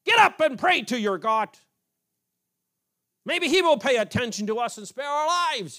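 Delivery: forceful, high-pitched yell; captain's shout. Acted. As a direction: shout it like a captain rousing a sleeper. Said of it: "he shouted".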